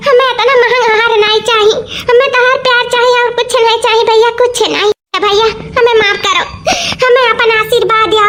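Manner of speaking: choked-up plea, voice catching on tears; tearful pleading. Acted. Sister refusing the necklace, pleading tearfully to her brother. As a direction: beg your brother through tears.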